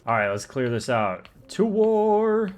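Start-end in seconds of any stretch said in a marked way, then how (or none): 1.5-2.5 high, loud charge yell; rally yourself into the fight; battle cry. Acted. Charging into the tower.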